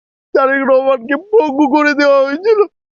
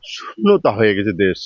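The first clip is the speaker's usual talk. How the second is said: snotty crying; 9 semitones lower than usual. Real, not acted. Grieving leader's sudden death.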